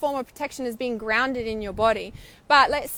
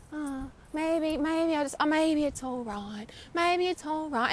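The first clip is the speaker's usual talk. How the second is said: softer, higher, hesitant backing down; softer and higher, wavering into giving up; wavering doubt; 4 semitones higher, 5 dB quieter, slower than usual. Retold or imitated. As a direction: waver and talk yourself out of it.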